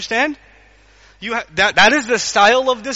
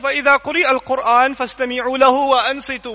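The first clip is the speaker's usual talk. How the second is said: Quran recitation; 2 semitones higher, much faster than usual. Shown as a demonstration. Quran recitation quoted in lecture.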